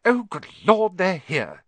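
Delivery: high flustered aunt; panicked rush of a gasp; frantic. A narrator's reading. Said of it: "said Aunt Petunia frantically".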